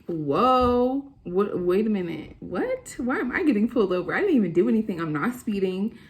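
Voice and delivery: rising outraged confusion; shocked disbelief. Retold or imitated. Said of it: "I'm like".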